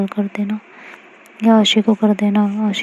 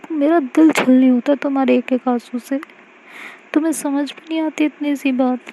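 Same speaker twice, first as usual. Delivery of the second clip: higher, gently chiding; pleading girlfriend; 3 semitones higher than usual. Acted. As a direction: coax her to stop crying. Aashi answers Mahi.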